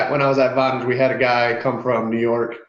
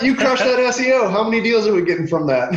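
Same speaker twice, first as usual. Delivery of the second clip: high, louder mock praise; teasing sarcasm; 10 semitones higher, 3 dB louder than usual. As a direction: rib your friend with sarcastic praise. Teasing his friend about SEO.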